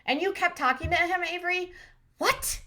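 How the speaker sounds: high mocking put-on voice, pitch shooting up at the end. Recapper mimicking Avery's partner, high mock voice. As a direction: lampoon the cast member's whine. Mock quote of cast member.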